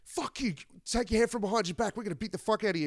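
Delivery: high, snarling mock trucker; tough-guy warning, hammed up; imitating an angry trucker; mock trucker threat.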